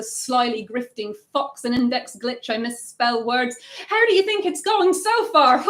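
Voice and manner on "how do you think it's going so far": bright, higher aside to the room; chatty aside breaking from the poem; playful aside. Real, not acted. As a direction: break off and check in with the crowd, amused. Aside to audience mid-poem.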